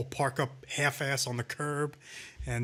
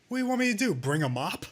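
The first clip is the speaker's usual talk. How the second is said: high sneering retort; mock Christie snapping; 6 semitones higher, faster than usual. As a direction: snap it back like an arrogant governor. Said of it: "he turns to him and says".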